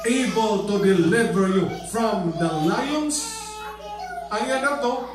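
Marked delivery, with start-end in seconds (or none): 0.1-3.2 calling out in grief at the lions' den; lamentable cry. Acted. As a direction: cry out in lament for a lost friend. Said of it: "With a lamentable voice, he cried".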